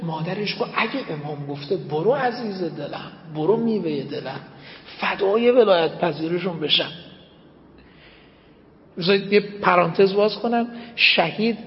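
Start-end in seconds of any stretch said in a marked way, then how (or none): 0.8-6.9 tender mother. Retold or imitated. Mother blesses son going to war.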